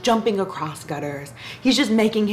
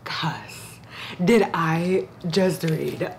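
slow disbelief, curse dropped to a breath; stunned reaction with a hushed curse; stunned, swear whispered; 2 semitones lower, 4 dB quieter, much slower than usual. Real, not acted. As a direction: whisper the swear word in shock. Shocked reaction to the book.

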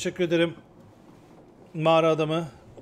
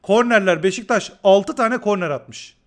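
louder, emphatic stat-reading; exasperated stat rant; 4 semitones higher, 8 dB louder, slower than usual. Real, not acted. Streamer fuming at Beşiktaş stats to viewers, loud exasperation. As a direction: hammer the numbers home in disbelief.

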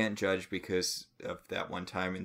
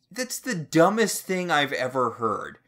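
exasperated; 5 semitones higher, 5 dB louder than usual. Real, not acted. Exasperated rant about book.

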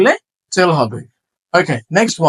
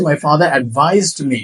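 slow model sentence; 3 semitones lower, much slower than usual. Shown as a demonstration. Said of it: "verb অর্থে তখন আমি বলছি".

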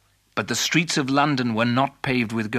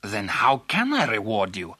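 character voice of a generous king; questioning king; 3 semitones lower than usual. Acted. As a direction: ask grandly as a monarch. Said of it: "asked the king".

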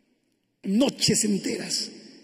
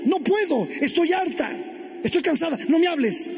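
higher-pitched, exasperated wife; fed-up outburst; 5 semitones higher than usual. Acted. Wife fed up and tired of her husband, exasperated. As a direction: push it out, at the end of your patience.

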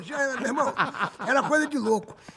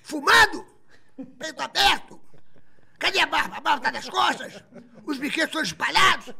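higher, hammed-up telling-off; mock scolding; 4 semitones higher than usual. Marlene scolding Santa Claus, high mock outrage. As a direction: scold him like an outraged diva. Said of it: "quando a Marlene viu aquilo".

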